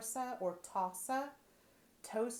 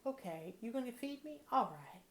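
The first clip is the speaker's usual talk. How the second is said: voicing her dogs; 3 semitones higher than usual. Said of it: "I better quit talking like that".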